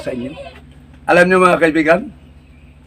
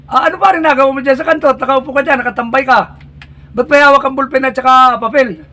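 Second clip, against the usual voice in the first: higher, prying buddy's voice; nosy barkada; 7 semitones higher than usual. Acted. Friend at the corner questioning the one with the list, high and nosy. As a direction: quiz your friend about the paper.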